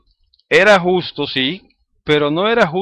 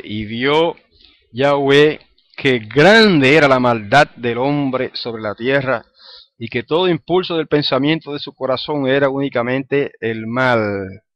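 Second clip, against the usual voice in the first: scripture reading; 3 dB louder than usual. Acted. Reads Genesis verse aloud.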